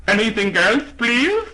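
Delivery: high, bright shopkeeper voice; a polite clerk asking sweetly. Acted. Shopkeeper asks customer.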